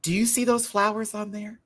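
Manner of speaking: high, eager pointing out the flowers; high excited question. Shown as a demonstration. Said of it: "This is me".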